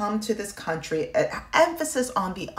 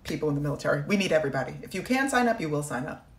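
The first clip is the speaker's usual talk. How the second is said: mocking the military. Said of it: "they are saying".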